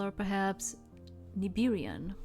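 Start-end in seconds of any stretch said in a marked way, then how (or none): 1.4-2.2 Nibirian with vowels dragged out dramatically; drawn-out diphthongs. Acted. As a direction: stretch each vowel of Nibirian, theatrical. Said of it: "they dragged out the vowels in Nibirian with dramatic flair".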